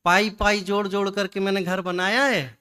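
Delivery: lightly acted homeowner's pride; proud boast. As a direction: imitate a man mildly boasting of his hard-earned house. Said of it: "किसका अहंकार कर रहा है". (हल्के अभिनय में अहंकार भरा दावा)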